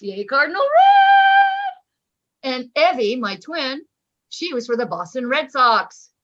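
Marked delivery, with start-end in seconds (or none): 0.0-2.5 very high, slow, stretched cheer. Retold or imitated. Teen cheering the Cardinals, high and drawn out. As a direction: cheer your team on like a teen fan.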